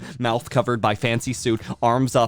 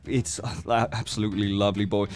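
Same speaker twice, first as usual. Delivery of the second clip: fussy host father. Acted. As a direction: play the flustered, doting host dad.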